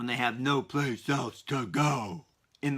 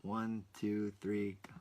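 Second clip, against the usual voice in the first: whispered to himself before starting; a private whisper before the episode begins; 4 semitones lower, 11 dB quieter, slower than usual. Real, not acted. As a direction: say it under your breath with no voice.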